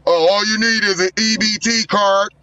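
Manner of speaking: hammed-up street-corner promoter pitch; mock pitchman voice. Roasting the caller, imitating a swap meet hawker voice. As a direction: sell it like a cheesy flyer hawker. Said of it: "You sound like the nigga that be like".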